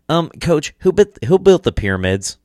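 put-on high, nagging kid asking questions; whiny student voice. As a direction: pester the coach like a bored student. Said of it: "asking stupid history questions".

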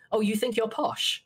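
high, slow mock disbelief in "Oh, you think you're posh?"; mocking retort. Supervisor mocking him for calling himself posh, high and slow. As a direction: drag it out like a teasing put-down. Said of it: "his immediate response was".

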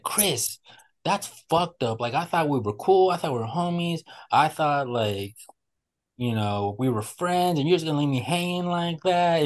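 guilt-trip him like a hurt buddy; begging and pleading. Retold or imitated. Prankster begging his friend for a handshake, whiny. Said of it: "begging and pleading Chris".

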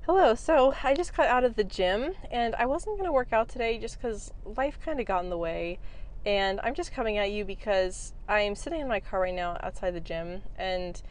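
breathless after the gym; panting between words; out of breath. Real, not acted. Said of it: "I'm really out of breath right".

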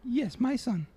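put-on old immigrant grandmother, broken English; grandma voice. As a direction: play a doting, blunt old grandma. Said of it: "Come on in, Grandma".

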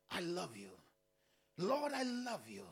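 soft, low and intimate; meant, tender love. Shown as a demonstration. Pastor showing how to tell God I love you, softly. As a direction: say it like to someone who gives you butterflies. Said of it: "Say it like you mean it".

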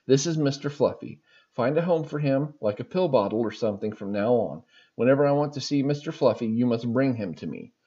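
a mock sergeant scolding in a light French-Canadian accent. Sergeant scolds the recruit over the fluff, mock French-Canadian bark. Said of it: "female French-Canadian sergeant".

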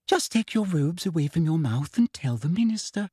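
sugary, impatient coaxing; impatient Umbridge. A narrator's reading. Umbridge pushing Marietta to speak, impatient. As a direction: Umbridge nudging the girl. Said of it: "said Umbridge impatiently".

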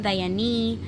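Diane said as die-ah-NEE; "Diane" stretched to three syllables, ending in ee; name variation. Shown as a demonstration. Host listing names she's been called, Diane ending in ee. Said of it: "a bunch of different variations".

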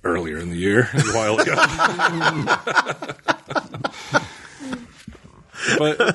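ordinary talk, nothing marked

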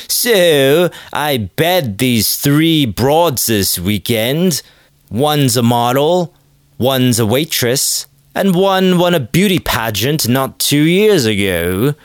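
put-on boastful podcaster with a slight British accent; slow, drawn-out brag, lightly British; faint British accent. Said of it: "slipping into the faintest of British accents".

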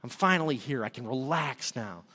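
low, soft, settling down; acted-out calm after a big sigh; relieved. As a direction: let the tension drain out, slowing. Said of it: "this big sigh that came over me".

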